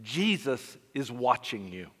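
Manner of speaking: eerie voice. A narrator's reading. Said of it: "this voice that called out that said".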